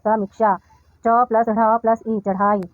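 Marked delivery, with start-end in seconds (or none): 1.1-2.2 slow, segmented spelling; deliberate teacher's spelling-out; sound by sound. Shown as a demonstration. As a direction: spell out चढ़ाई piece by piece. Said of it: "अक्षरों, वर्णों को मिलाकर पढ़िए".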